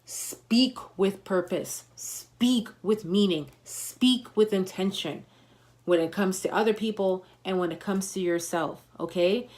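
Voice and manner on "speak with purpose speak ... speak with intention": slow, measured commands; slow emphatic commands. Shown as a demonstration. Coaching viewers to speak with purpose, slowly. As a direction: lay down each command slowly. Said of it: "Step your voice game up".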